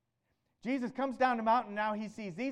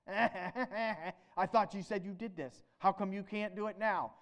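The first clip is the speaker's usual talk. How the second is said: mocking taunt. Scribes taunting the disciples.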